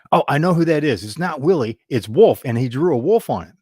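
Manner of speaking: an employee who happily recognises the customer; excited staffer. Retold or imitated. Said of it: "One of the staff that worked there goes".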